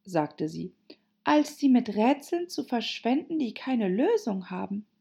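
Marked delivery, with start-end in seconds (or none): 1.2-4.9 put-on higher girl's voice, mildly weary; weary Alice. Alice fed up with riddles, high, mildly weary. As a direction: finish the reproach tiredly, pitched up. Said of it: "Alice seufzte müde".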